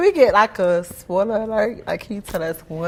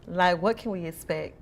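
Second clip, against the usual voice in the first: sexy voice. Acted. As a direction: ask it in a sultry, flirty tone. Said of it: "Why are you talking to me in your sexy voice?".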